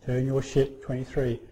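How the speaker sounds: steady, unbothered reply; calm and composed. Retold or imitated. Lighthouse answering the captain, calm and composed. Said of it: "calm and composed".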